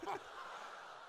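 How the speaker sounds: unvoiced, soft laughter; breathy laugh. Real, not acted. Laughing at the partner's silly song, a soft unvoiced laugh. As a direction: laugh under your breath.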